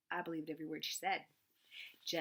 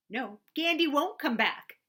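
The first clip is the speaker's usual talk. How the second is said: slow, high, loud wail; 7 semitones higher, 8 dB louder, slower than usual. A narrator's reading. Sister wailing to her brother about the lost goose, slow loud wail. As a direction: wail it out in grief. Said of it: "Daisy wailed".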